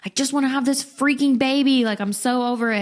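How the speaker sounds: frustrated. Retold or imitated. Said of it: "I was literally pissed".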